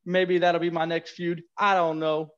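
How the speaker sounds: put-on wrestling promo in a New York accent. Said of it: "do a promo in a New York accent".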